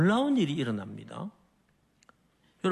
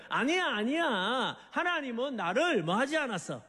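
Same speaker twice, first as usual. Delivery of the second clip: David's raised, insistent cry; crying out in defiance; 3 semitones higher than usual. Acted. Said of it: "더 큰 소리로 외치기를".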